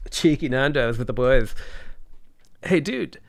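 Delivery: a lightly posh south Dublin D4 voice; breezy south Dublin rich-kid talk; posh D4 Dublin accent. Acted. Doing the D4 accent for chat, a light posh Dublin lilt. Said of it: "my D four accent".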